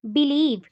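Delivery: "बिलीव" with a drawn-out लीव; light बि, weighted लीव in "बिलीव"; stress on second syllable. Shown as a demonstration. Teacher giving another example, stressing लीव in "बिलीव". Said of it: "Stress on the second syllable".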